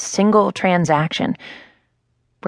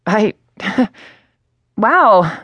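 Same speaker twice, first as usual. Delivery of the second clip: flustered little laugh, a touch higher; embarrassed laugh at a fan's praise; awkward laugh; 4 semitones higher, 5 dB louder than usual. Acted. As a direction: laugh off the compliment nervously. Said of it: "laughing awkwardly".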